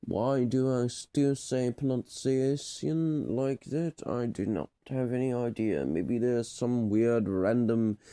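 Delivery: puzzled question in an English accent; lightly hammed English accent; modern English accent. Shown as a demonstration. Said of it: "devolving into a modern English pronunciation".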